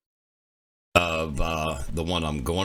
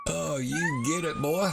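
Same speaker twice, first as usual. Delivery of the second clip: high, coaxing pet voice; puppy talk; 11 semitones higher than usual. Real, not acted. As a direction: cheer the pup on, pitched up. Talking to a puppy on screen.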